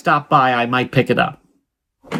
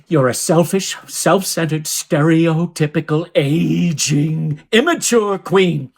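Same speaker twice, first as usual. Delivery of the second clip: deliberate insults, stretching out the last ones; scornful tirade; slower than usual. Acted. Caller insults the man who refused the favor, scornful tirade. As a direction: build the list to a drawn-out final jab. Insults Mike in a phone quarrel.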